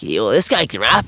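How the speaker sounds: lightly voiced dad, low; imitating his dad. Dad vouching for a rapper he knew, imitated low. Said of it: "'Cause that's how he talks".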